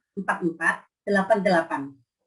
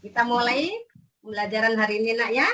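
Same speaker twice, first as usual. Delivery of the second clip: kindergarten teacher voice. Acted. Teacher greeting class online.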